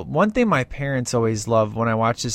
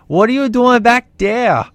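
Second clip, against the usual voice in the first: much higher, louder Arnold shout; mock Arnold shout; 9 semitones higher, 8 dB louder than usual. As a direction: yell it like startled Arnold. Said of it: "and Arnold goes".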